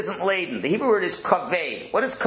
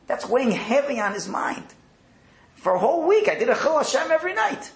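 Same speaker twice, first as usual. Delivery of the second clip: worried inner voice; 7 semitones higher than usual. Acted. Avram's worried inner monologue voiced.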